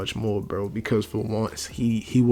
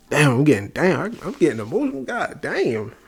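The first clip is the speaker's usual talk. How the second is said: real emotion, voice breaking higher; choking up mid-sentence, pitch jumping up; voice cracking with emotion; 5 semitones higher than usual. Real, not acted. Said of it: "y'all heard my voice crack?".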